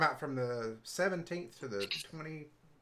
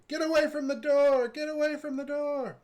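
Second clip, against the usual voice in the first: high-pitched warning yell; acted scream of alarm, pitched way up; in-character screaming; 11 semitones higher, 5 dB louder than usual. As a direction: cry out high and urgent, drawing out the end. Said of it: "I start screaming".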